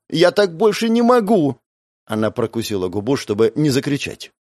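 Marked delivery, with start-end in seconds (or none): 0.1-1.6 the same plea cried out much higher and louder; desperate cry. A narrator's reading. Sophia repeating her plea to Vitya, crying out. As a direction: cry it out so he has to hear. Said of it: "Я не слышу".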